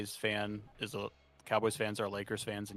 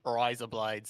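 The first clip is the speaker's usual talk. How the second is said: voiced Aussie attempt; Australian accent; slower than usual. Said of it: "That was pretty good".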